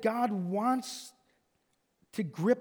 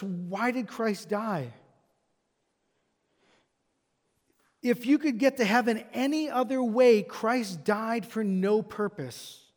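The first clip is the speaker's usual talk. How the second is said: rhetorical preaching. Acted. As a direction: build each question, then drop on why did Christ die. Repeated rhetorical questions.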